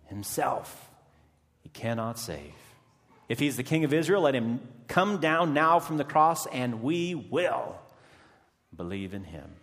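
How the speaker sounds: loud scornful taunt; priests mocking. Chief priests mocking Jesus from below, loud sneer. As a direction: jeer it at the man on the cross. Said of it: "mocking with the scribes and elders".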